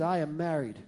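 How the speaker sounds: low, hushed scheming wife; a hint of a sly whispering wife; wife plotting revenge on her husband, hushed; conspiratorial lady. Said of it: "She said".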